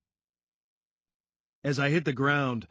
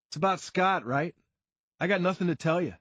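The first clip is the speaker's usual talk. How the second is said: defensive Sean; 6 semitones higher, 3 dB louder than usual. A narrator's reading.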